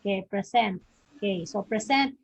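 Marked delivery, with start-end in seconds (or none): 0.3-0.8 PRE stressed in "present"; stress on first syllable. Shown as a demonstration. Teacher repeating the example word for students, first-syllable stress. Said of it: "stress in the first syllable". 1.6-2.1 "present" stressed on PRE; stress on first syllable. Shown as a demonstration. Teacher explaining the noun meaning a gift, first-syllable stress. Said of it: "that stress is in the first syllable".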